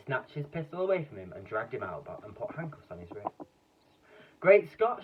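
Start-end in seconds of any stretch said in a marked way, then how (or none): 4.4-5.0 loud startled shout, high. Acted. Police chief shouting at the sight of the Cobra. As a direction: blurt it out in shock. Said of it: "shouted the chief of the police".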